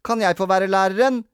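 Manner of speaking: put-on high, eager child's request; goody-goody boy. A narrator's reading. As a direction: ask like a model pupil. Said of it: "spurte perfekte Peter".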